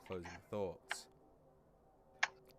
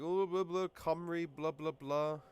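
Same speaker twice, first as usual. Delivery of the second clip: mock Welsh gibberish; 7 semitones higher, 5 dB louder, slower than usual. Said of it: "they go like".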